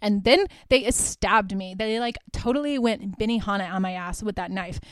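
imitating a casually detached narrator; offhand, detached mock testimony; detached retelling. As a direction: recount it matter-of-factly, as if unbothered. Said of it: "from the very detached perspective".

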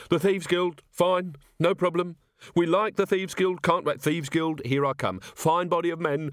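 high, eager babble of agreement; hasty agreement. A narrator's reading. Unlicensed thieves all speak at once to the captain, hastily agreeable. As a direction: several thieves falling over themselves to agree. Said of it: "and then all spoke at once".

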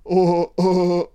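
two high, loud oh cries; mock crazed wail. Viewer tripping out at the film, mock wailing. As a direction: cry out oh as if losing it.

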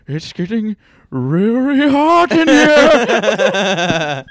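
put-on loud, high, slow accented whine, laughing; Asian accent. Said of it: "strong Asian accent".

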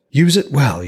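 eager smith. Acted. Smith hands over the spear.

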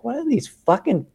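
high-pitched mock outrage at the screen; imitating own over-the-top tirade; retold ranting. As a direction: rant in disbelief, pitch jumping up. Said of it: "I'll start losing my head over nothing".

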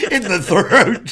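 laughing through the words. Real, not acted. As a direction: say it while cracking up. Laughing punchline.

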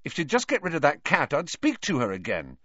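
high-pitched start, settling as it ends; a touch of indignation; mildly angry. A narrator's reading. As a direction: grumble a condition with some heat. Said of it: "Ron said angrily".

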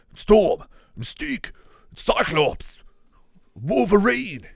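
high, loud call of each name; excited roll call. Real, not acted. Gamer spotting the X-Men one by one, excited shouts. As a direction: hail each one like a big reveal. Calling out heroes as they appear.

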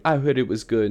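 loud mock British reality-show contestant; British accent. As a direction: ask it loudly in a put-on British accent. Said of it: "that was an amazing, um, accent".

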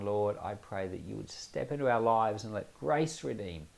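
earnest spoken prayer to the Lord; closing prayer. Real, not acted. Pastor praying over listeners after the Ruth lesson, earnest prayer. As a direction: pray it sincerely, pleading gently for grace.

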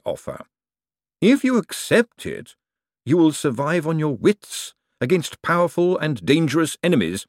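lightly voiced lord, measured and assured; a hint of patrician relish; urbane ruler, tempting. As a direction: dangle the danger as an enticement. Vetinari tempts with danger.

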